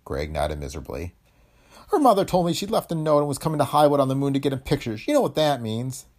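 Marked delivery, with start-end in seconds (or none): 1.9-6.1 high-pitched, troubled character voice; miserable father. A narrator's reading. Father telling Tony of his runaway daughter, miserable. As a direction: relate it high and unhappily.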